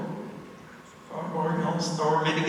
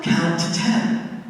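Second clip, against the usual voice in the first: gentle slow instruction; 3 dB louder, slower than usual. Retold or imitated. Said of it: "my grandma says to her".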